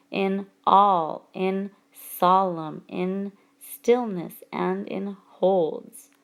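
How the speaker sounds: very slow "all", "solemn", "stillness", "holds", each L held; single out "all", "solemn", "stillness", "holds" for their L; stress on L sounds. Shown as a demonstration. Teacher pointing out consonance in the line, stress on L sounds. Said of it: "we can definitely identify the L sound".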